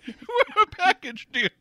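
high, loud dandy voice; hammy stage actor. Pretend. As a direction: ham up a fop. Fop character.

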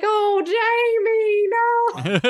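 high, very slow soothing coo; consoling friend. Retold or imitated. Makeup artist comforting her crying friend, high slow coo. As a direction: gently talk her out of crying.

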